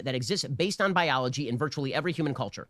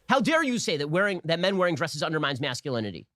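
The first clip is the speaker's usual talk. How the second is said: mock outraged leftist; 2 semitones higher than usual. Host mocking the left as outraged scolds. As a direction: mimic an offended scold, pitch climbing. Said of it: "weird gaslighting shut up routine".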